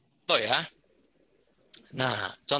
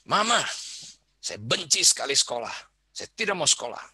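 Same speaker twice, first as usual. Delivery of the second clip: imitating a child; 3 semitones higher than usual. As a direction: whine it like a kid who hates school. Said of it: "ada anak bilang". (anak merengek tidak mau sekolah)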